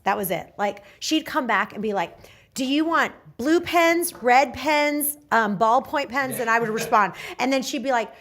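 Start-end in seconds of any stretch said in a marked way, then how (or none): 2.5-8.1 fussy questioning. Retold or imitated. Imitating fussy assistant.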